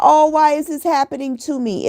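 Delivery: mocking someone who feels sorry for themselves; mock victim whine. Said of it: "start complaining and blaming about".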